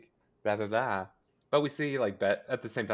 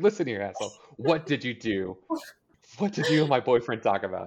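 a touch louder, slowing mock interrogation; confrontational Veronica; 3 semitones higher, 5 dB louder than usual. Imitating a daughter calling out her dad, confrontational. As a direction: imitate a daughter demanding answers, mildly heated. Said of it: "calling him out".

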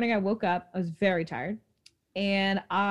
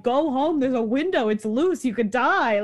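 higher, louder mock shout at the street; urgent half-joking yell; retold yelling; 3 semitones higher, 4 dB louder than usual. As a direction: call down to strangers to go home. Calling to people in street.

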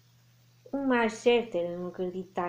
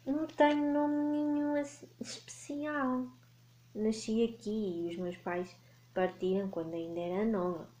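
lightly voiced gentle dragon; friendly dragon voice; 3 dB quieter than usual. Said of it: "disse o dragão".

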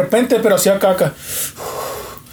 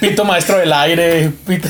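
slow, laughing punchline; 2 semitones lower, slower than usual. Real, not acted. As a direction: savor the joke, laughing. Joke title said through laughter.

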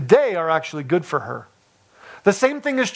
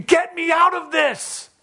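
much higher, stretched-out cry to escape; inner scream; 11 semitones higher, slower than usual. Retold or imitated. Preacher voices the listener's heart crying to escape the heat, high and stretched. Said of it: "everything in you is screaming".

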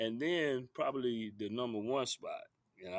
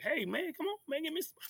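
working the refs. Retold or imitated. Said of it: "I'm working the refs".

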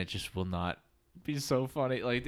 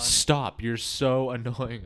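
louder, drawn-out mock exasperation; retold annoyance; 7 dB louder, much slower than usual. Girlfriend scolding boyfriend over the sword, retold exasperation. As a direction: imitate a fed-up partner, slow and loud. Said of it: "She's like".

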